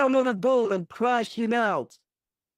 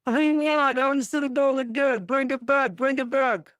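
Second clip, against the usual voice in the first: higher, fast eager plea; excited; 5 semitones higher, faster than usual. Real, not acted. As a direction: rush it out, dying to see the goal. Fan demands goal replay.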